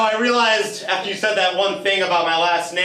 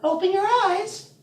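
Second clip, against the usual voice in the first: Pam; 12 semitones higher than usual. Acted. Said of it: "I'm Pam now".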